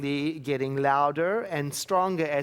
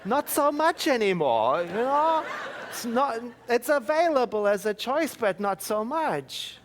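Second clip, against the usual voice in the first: playful aside; 8 semitones higher, 4 dB louder than usual. Real, not acted. Playful aside on old anger.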